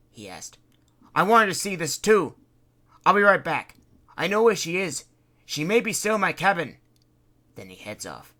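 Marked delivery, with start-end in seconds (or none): 1.2-6.8 eager Fred. Acted.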